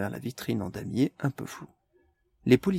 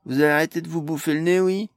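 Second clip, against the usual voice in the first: loud, fast exasperated shout; exasperated cry; 6 semitones higher, 6 dB louder than usual. Acted. Pod stopping the quarrel, loud and fast. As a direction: cut them off, fast and loud. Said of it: "s'écria Pod".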